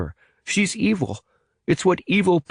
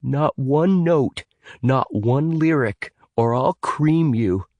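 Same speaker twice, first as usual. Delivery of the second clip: threatening; 7 semitones higher, slower than usual. Acted. Evan threatening Jonah.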